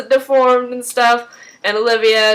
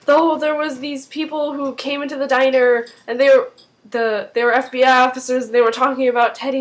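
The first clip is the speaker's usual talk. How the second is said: mock-worried, higher-pitched retelling; 4 semitones higher than usual. Husband tells his wife about the FBI officers, mock worried. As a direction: imitate a worried man hurrying out his news. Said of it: "he's all worried".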